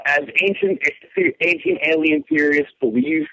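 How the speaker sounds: slow, spaced-out model reading; measured prompt with pauses; demonstrating the phrase. Shown as a demonstration. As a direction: say it slowly as a line to copy. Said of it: "say the phrase".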